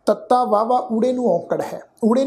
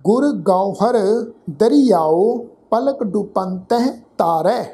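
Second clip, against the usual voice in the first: slow, measured Gurbani recitation; scripture recitation; slower than usual. Shown as a demonstration. Teacher recites scripture slowly for students to follow. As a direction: recite each word slowly and clearly.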